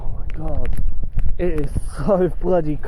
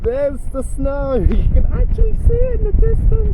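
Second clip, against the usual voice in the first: excited; 8 semitones higher than usual. Real, not acted. Excited reaction to approaching snow.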